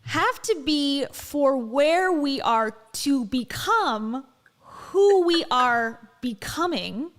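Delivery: hammed-up motivational speaker, slow and weighty; Dave Hollis impression. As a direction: stretch every word like a profound sermon. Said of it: "here's mine".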